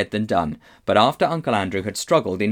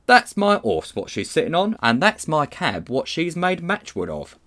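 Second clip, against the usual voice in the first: higher, aggrieved Cockney complaint; red-faced cabby; 6 semitones higher than usual. A narrator's reading. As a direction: complain to the policeman in a raised Cockney voice. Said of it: "The red-faced man in a bowler hat".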